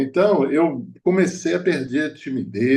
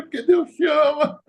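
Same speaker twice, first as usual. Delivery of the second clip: tearful; 14 semitones higher than usual. Retold or imitated. Preacher retelling telling a woman God loves her, tearfully. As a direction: let "Porque Deus te ama" break open with emotion. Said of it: "eu comecei a chorar".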